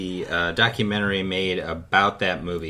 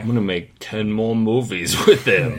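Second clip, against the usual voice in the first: put-on Boston accent. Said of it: "He's trying to do a Boston accent".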